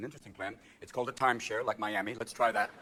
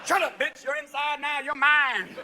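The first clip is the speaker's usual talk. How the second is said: higher, louder bully growl; tough inmate; 9 semitones higher, 5 dB louder, slower than usual. Acted. Cellmate threatening Martha, mock tough. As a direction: lay down the law to the new girl.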